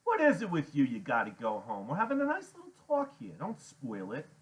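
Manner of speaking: loud, swooping jeer; exasperated mockery. A narrator's reading. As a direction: scold him for spoiling the chat. Iggy annoyed, mocks Freak.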